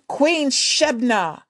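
slow, loud call of her name; shouted name. Acted. Young warrior challenging the queen, slow loud call. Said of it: "he shouted".

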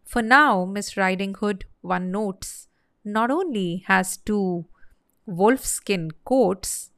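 lively, rhythmic narration of a comic poem; storybook verse reading. Acted. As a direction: tell the rhyming tale with measured pauses. Reads comic verse tale.

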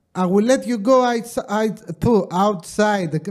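put-on slow, stumbling Greek accent in English. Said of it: "όταν τα λέω με ελληνική προφορά, κάνω σαρδάμ".

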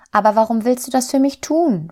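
high, astonished questioning voice; puzzled little soul. A narrator's reading. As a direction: ask in wonder, pitched well up.

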